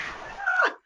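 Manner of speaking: short high-pitched squeal of laughter. Real, not acted. Making guests panelists, a short high laugh. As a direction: let out a quick high laugh. Host's own laugh at announcement.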